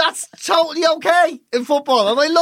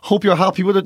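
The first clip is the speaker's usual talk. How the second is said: mock-cheery wrap-up, pretending it went fine; fake polite reassurance; 3 semitones lower than usual. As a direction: cover the awkwardness with forced politeness. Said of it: "we were both doing the whole thing".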